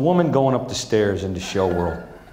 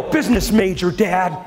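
imitating son; 6 semitones higher than usual. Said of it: "He'll go".

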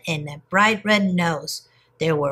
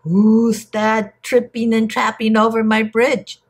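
put-on troll voice, higher than the narration; shouting troll; 4 semitones higher, 4 dB louder than usual. A narrator's reading. Ugly troll challenges little goat on his bridge, shouting. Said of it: "shouted the ugly troll".

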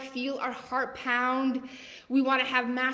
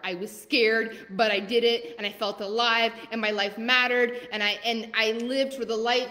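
triumphant follower; 4 dB louder than usual. Retold or imitated. Voicing a listener proudly telling her they went for it, louder. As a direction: proclaim it like a victory. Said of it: "be messaging me and be like".

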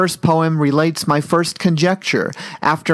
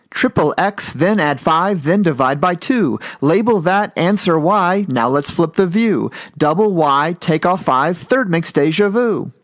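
rhythmic verse with lilting rises and falls; rhyming poem recital; 3 semitones higher than usual. Acted. Algebra teacher writes in verse, rhythmic rhyming recital. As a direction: bounce through it line by line on the beat.

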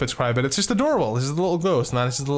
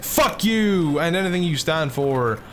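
drawn-out mock-angry outburst; pissed off; 4 semitones higher, slower than usual. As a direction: voice an angry creature, slightly higher. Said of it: "it just legit looks pissed off".

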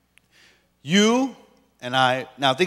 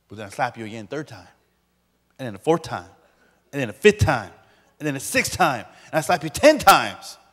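mounting escalation; 3 semitones lower than usual. Pretend. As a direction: pile up each count more forcefully. Escalating list of pretend slaps.

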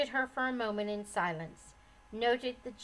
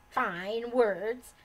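snapping; 5 dB louder than usual. Acted. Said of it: "snapped the old lady".

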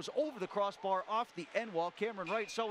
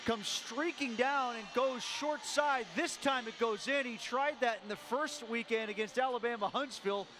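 lingering goal excitement; 4 semitones higher than usual. Real, not acted. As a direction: keep riding the goal's energy. Replay description after goal.

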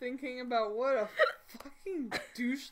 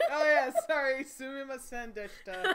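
put-on loud, laughing American-accented Japanese; thick-tongued American accent on sumimasen deshita; 6 dB louder than usual. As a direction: play the apologetic American cleaner. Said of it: "cleaning staff in from America".

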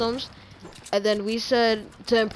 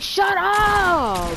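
drawn-out; 8 semitones higher than usual. Pretend. Mock drawn-out retort.

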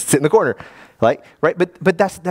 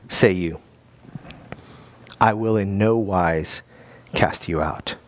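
slow, solemn reading; slower than usual. Acted. Preacher reading Bunyan to his congregation, slow and soothing. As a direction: let Christ's promise fall gently, slowly.

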